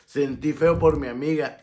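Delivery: drawn-out mock lament, high and loud; mock pitiful friend. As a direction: imitate a woman claiming she felt bad for her friend.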